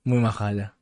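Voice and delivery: words slurring after too many drinks. Real, not acted. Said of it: "estoy borracho".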